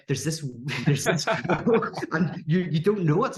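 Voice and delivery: amused, laughing as the words come out. Real, not acted. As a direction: talk through a real laugh. Laughs while retelling awkward talk.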